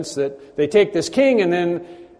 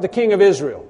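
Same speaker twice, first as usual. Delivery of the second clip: crowd cry; 3 semitones higher, 4 dB louder than usual. Retold or imitated. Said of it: "And then cry out".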